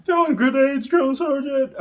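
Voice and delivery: high, loud yell breaking into laughter; eager recruit yell. Retold or imitated. Imagined eager recruit shouts answer, high loud yell. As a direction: shout it proudly while laughing.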